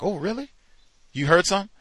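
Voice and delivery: high, eager mock enthusiasm; mock eager excitement. Coworker begging to hear a racist joke, in high mock glee. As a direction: ham up a gleeful coworker. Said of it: "the fella who got excited".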